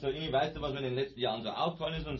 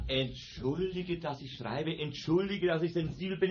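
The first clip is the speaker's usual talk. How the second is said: sarcastic apology; 3 semitones higher, slower than usual. Acted.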